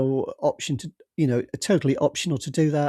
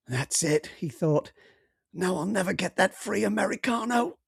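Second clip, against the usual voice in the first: put-on American accent; 5 semitones higher than usual. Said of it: "my American accent".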